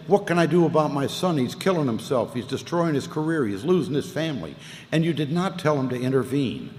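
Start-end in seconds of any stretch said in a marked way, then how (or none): 0.1-4.5 a hint of a father's whine, higher; whining father. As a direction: mildly whine as the worried dad. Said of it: "he'd whine about me".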